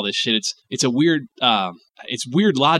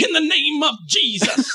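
much higher, slow, laughing; mock preacher; 12 semitones higher than usual. Host mocking the exorcist, laughing slowly. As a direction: drag it out mid-laugh.

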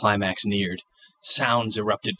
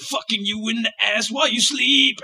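laughing; 13 semitones higher than usual. Acted. Lullaby punchline, laughing.

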